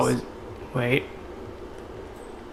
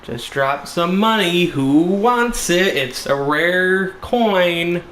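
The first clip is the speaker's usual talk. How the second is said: calling out; 5 semitones higher, slower than usual. Pretend. Calls out to lure game guards.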